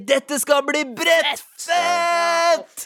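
high, drawn-out show host shout; stretched, singing presenter catchphrase; Cash King. Acted. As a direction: belt it like a TV host. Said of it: "Cash King som programleder".

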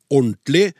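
"ordentlig" shortened to orntlig, middle syllable dropped; common mispronunciation. Shown as a demonstration. Host reads listener's punchline on laziness, "ordentlig" squeezed into orntlig. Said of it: "uttales gjerne ordentlig".

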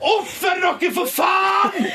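high, strained scolding at the screen; re-enacted yelling. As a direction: act out screaming at misbehaving TV contestants. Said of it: "lyst til å sitte der og rope sånn".

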